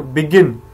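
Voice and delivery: short बि, strong गिन in "बिगिन"; stress on second syllable. Shown as a demonstration. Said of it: "जो second है".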